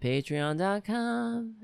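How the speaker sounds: patreon dot com, slow and solemn like a preacher; church voice. Shown as a demonstration. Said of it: "I sound like I'm in church".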